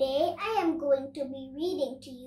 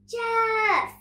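high, loud cry of the name; sudden high shout; alarmed call; 9 semitones higher, 10 dB louder than usual. A narrator's reading. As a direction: call out sharply for a friend in trouble. Nora cries out for her toy giraffe.

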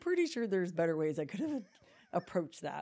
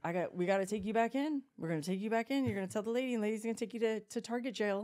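higher-pitched parental threat; mock stern warning; 5 semitones higher, faster than usual. Mom threatening her toddler with store jail, higher scolding tone.

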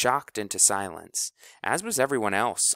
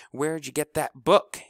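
louder, high question; demanding; 7 semitones higher, 6 dB louder than usual. Acted. Lincoln demands where House got the book, loud. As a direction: demand an answer. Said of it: "asked Lincoln Latham".

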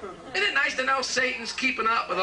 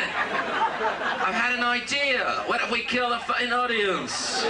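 slow, higher, gleeful pitch; manic idea; 5 semitones higher, slower than usual. Retold or imitated. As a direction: savour the evil plan. Manic band member pitches idea.

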